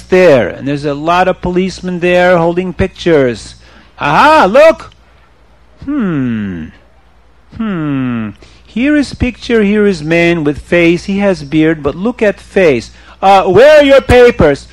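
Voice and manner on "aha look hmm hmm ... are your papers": suspicious officer with broken English; police chief. Acted. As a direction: interrogate him like a suspicious foreign policeman. Police chief questions Yaakov.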